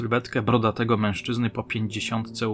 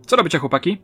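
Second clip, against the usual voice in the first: higher, louder breezy question; cheerful; 6 semitones higher, 5 dB louder, much faster than usual. A narrator's reading. Policewoman greeting the lads, cheerful. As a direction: ask it cheerily. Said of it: "rzuciła radośnie".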